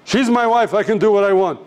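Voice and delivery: defiant retort. Retold or imitated. Husband answers the man who stepped in, mildly angry defiance. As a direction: push back as if entitled.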